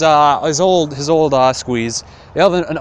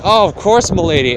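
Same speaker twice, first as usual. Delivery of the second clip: higher, louder mock-courtly reply; hammed-up knightly gallantry; 5 semitones higher, 4 dB louder than usual. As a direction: play the smooth charmer. Friar voiced as gallant.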